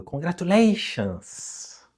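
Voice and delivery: slow, dull "congratulations" trailing down; flat congratulations. Shown as a demonstration. Teacher showing a restrained student's slow, unexcited congratulations. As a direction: drag "congratulations" out without joy. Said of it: "é mais ou menos o".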